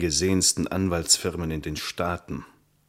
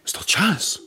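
frightened whisper; 13 semitones higher, 5 dB louder than usual. Acted. Frightened hushed reply after a noise.

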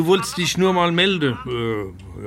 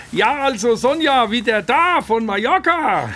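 raised phone voice; 6 semitones higher than usual. Real, not acted. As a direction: speak up into the phone. Father talking up on phone.

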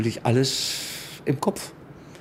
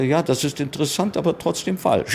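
tag; 4 semitones higher than usual. Retold or imitated. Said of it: "eine ganz helle, ganz helle Stimme".

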